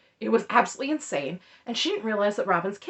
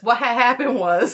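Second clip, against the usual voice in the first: lightly hammed-up, louder quote; imitated catchphrase; 6 dB louder than usual. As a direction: quote the meme phrase a little louder. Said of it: "Robin unironically says".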